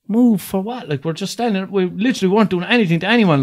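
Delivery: indignant protest. Retold or imitated. Young man arguing back at a guard, indignant.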